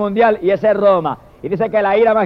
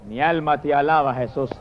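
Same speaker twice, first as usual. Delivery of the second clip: whispered prayer; 7 semitones lower, 5 dB quieter than usual. Real, not acted. Murmured prayer aside.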